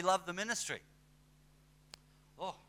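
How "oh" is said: lampoon someone thrilled by the spotlight; giddy mocking voice; mock starstruck preacher. Mocking ministry-lovers.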